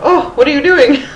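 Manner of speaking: high, loud, laughing self-scolding; amused, exclaimed telling-off of yourself; mock self-reproach. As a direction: playfully catch yourself misbehaving. Acts out scolding herself, laughing.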